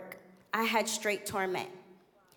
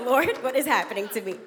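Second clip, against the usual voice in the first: fast, louder half-laughing cry to God; retold desperate plea; 5 dB louder, faster than usual. Retelling her panicked prayer during the week, fast and half laughing. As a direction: toss it up to heaven in mock panic. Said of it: "I was like".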